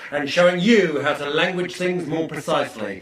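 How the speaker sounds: big stage welcome to the course; hyped seminar host. Acted. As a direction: whip the room into energy like a self-help guru. Motivational coach opens seminar.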